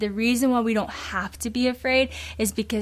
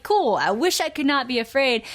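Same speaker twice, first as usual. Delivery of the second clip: sarcastic reply; 4 semitones higher than usual. Retold or imitated. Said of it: "And you're like".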